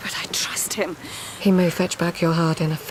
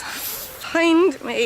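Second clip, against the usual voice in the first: eerie high call; 11 semitones higher than usual. Acted. Dream voice calling.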